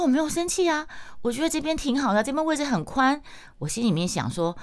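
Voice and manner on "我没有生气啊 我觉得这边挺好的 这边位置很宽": higher, sing-song insistence that all is fine; mock breezy denial. Telling the guilty sister she isn't angry, higher breezy denial. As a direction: brush it off sweetly while still sulking.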